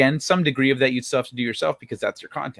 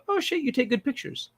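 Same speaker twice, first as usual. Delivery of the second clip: higher, breathy-free gushing fan; impressed fan voice; 8 semitones higher, 4 dB quieter than usual. Retold or imitated. Imitating an impressed viewer reacting to photos. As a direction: gush like an impressed stranger. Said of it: "And people go".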